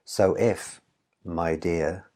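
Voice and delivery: "So if", a short break, then "my dear"; pause at comma. Shown as a demonstration. Teacher showing the comma, pause before my dear. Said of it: "because there's a comma there".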